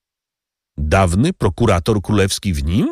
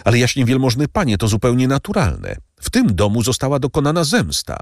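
higher, pleading servant voice; slowing on the last words; anxious servant Bertuccio; 9 semitones higher than usual. A narrator's reading. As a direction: insist on your honesty to the count.

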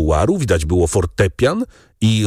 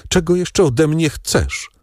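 slow, higher dying strain; dying rasp; 7 semitones higher than usual. A narrator's reading. Dying wife challenges her husband, with a strained rasp. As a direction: drag the question out as if dying. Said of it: "rzężenie zdawało się rozrywać jej krtań".

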